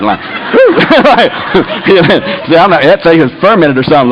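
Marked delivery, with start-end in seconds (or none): 0.5-0.7 high, laughing whew; a high whoop at a bad taste; startled whew. Telling friends about fermented juice, startled high whew.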